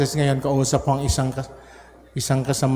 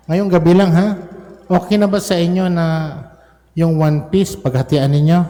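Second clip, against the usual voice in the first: playful bargaining; 5 semitones higher, 3 dB louder than usual. Real, not acted. Teasing kids about Jollibee.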